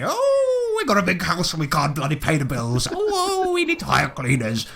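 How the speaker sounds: mock whiny wife with a high swooping oh; hammed-up nagging wife imitation. The speaker mocks his nagging wife in a swooping whine. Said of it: "the wife who was nagging me".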